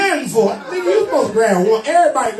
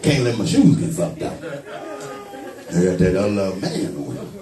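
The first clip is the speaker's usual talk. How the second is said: low mock voice; 4 dB quieter, slower than usual. Voicing the man guarding his shoes.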